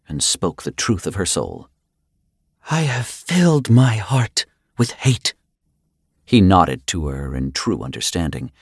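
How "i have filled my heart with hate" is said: higher-pitched, trembling-rage woman's voice; shaking with rage. A narrator's reading. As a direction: speak hatred through lips shaking with rage. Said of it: "her lips shaking with rage".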